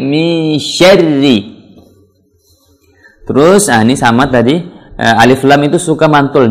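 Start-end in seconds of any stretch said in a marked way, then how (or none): 0.0-1.6 "mi syarri" slowly stretched, thin R; correct thin syarri. Shown as a demonstration. Teacher correcting learners' recitation, slow thin "mi syarri". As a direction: hold "mi" long, then a thin "syarri". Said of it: "Ini bukan syarri, tapi".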